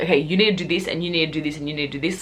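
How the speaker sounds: mock-boss someone around, fading; bossy. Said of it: "being like".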